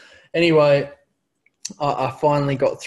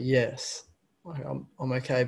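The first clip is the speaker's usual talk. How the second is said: somber yes; 4 dB quieter than usual. Retold or imitated. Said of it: "what I, I describe as a somber yes".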